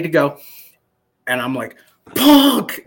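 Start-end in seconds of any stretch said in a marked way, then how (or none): 2.1-2.8 high, loud yell of recognition; excited fan shout. Retold or imitated. Soldier spotting his wrestling idol behind him, excited shout. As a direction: holler it high like a starstruck fan.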